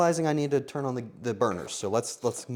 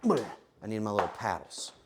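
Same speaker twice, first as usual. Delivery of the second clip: usual speaking voice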